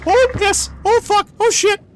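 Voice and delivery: high, loud panicked curses; startled cursing. Real, not acted. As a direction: blurt them out in shock. Startled by monster in game.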